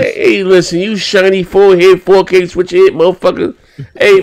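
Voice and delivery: lightly voiced leprechaun; a hint of a cheeky leprechaun. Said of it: "put on your leprechaun voice".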